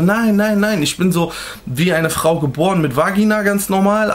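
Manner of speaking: retold objection in a lightly put-on high voice; imitated high voice. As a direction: mimic an insistent denial up high. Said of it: "versucht, auch so eine helle Stimme zu machen".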